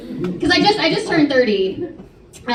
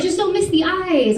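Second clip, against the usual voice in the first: higher, slow mock-mom voice; mom's advice; 6 semitones higher than usual. Mom advising her daughter about Botox, slow, higher mock-mom voice. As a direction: deliver the mom's blunt tip slowly, lightly hammed. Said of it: "She was like".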